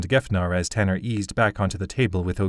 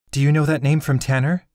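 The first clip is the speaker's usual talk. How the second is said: tense demand; 6 semitones higher, 4 dB louder than usual. Acted. Allie, alarmed, same voice.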